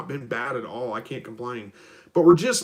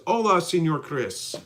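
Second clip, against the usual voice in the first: slow, higher, badly faked Spanish accent; terrible Spanish accent; 4 semitones higher, slower than usual. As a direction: draw out a greeting in a hammy, amateur Spanish accent. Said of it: "That's my terrible Spanish accent".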